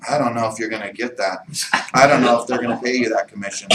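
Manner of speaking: low, soft, quick naysayer; hushed, deflating voice of doubt; doubting inner voice. Acted. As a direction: murmur discouragement like a nagging inner critic. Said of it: "I hear the voice go".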